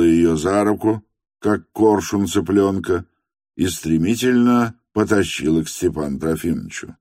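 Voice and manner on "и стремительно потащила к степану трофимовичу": plain reading voice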